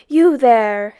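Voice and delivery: loud thundering call. A narrator's reading. Sam Hain calls down to the fleeing boys, thundering. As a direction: thunder it down from above. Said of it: "thundered the voice above them".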